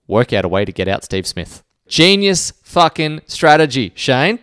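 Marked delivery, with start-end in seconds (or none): 1.9-4.4 sarcastic. Real, not acted. Sarcastic praise of Warne.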